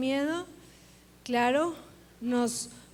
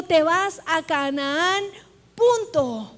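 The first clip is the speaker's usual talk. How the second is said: firm command; 3 semitones higher, 5 dB louder, slower than usual. Acted. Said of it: "Él le dijo".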